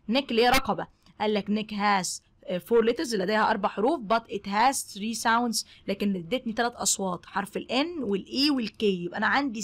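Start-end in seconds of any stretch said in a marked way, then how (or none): 4.1-5.7 slow teaching read. Shown as a demonstration. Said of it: "teacher models English sentence".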